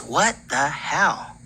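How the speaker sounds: slow, drawn-out disbelief; retold bafflement. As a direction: stretch each word, imitating someone baffled. Retold baffled reaction to empty room.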